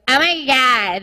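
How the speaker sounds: a light imitation of the girly voice dude comics use for girlfriends; lightly mock the voice guys do for their girlfriends; comic doing a girlfriend impression, only lightly voiced. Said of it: "they talk in this voice".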